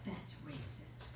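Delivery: unvoiced whisper, slow and low. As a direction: breathe it into her mum's ear. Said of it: "She whispers in my ear".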